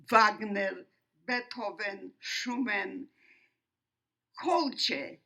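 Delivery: emphatic, measured oratory with weighty pauses; formal testimony speech. Real, not acted. Survivor addressing an audience about the Holocaust, formal and emphatic. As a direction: declaim it firmly, phrase by phrase. Delivers prepared opening of testimony.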